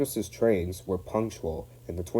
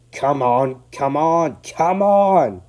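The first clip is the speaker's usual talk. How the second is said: rising higher and louder with each call; cross puffing, building; 7 semitones higher, 11 dB louder, much slower than usual. Acted. James straining up the hill, cross and building. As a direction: puff it out crossly, pushing harder. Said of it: "puffed James crossly".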